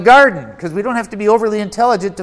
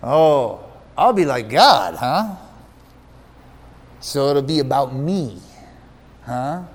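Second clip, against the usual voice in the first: lower, softer tempted musing; musing Eve; 7 semitones lower, 4 dB quieter than usual. Retold or imitated. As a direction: ponder the offer, half-won over. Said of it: "Eve musing at the devil's offer".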